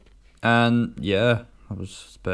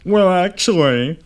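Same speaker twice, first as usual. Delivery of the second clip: nerd voice; 9 semitones higher, 10 dB louder than usual. Acted. Nerdy pushes-up-glasses bit.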